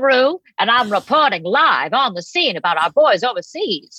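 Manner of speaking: lightly voiced old-time lady reporter; no-guff newswoman. Comedian playing wartime reporter Kitty LaRue to the host, lightly voiced no-guff newswoman. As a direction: report live like a no-guff gal, lightly put on. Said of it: "She's a no guff gal".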